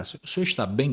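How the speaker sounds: imitating an overly concerned cashier; mock concern, lightly imitated; concerned intonation. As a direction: ask as if the customer looked unwell. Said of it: "Como se eu tivesse passando mal".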